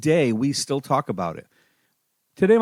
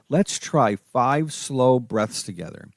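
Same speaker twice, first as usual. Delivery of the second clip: gentle suggestion; slower than usual. Shown as a demonstration. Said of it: "You can say something like".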